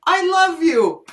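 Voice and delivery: voicing the puppy, a sweet plea; dog's voice. Owner voicing her puppy sweet-talking, mock sweetness. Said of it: "He goes".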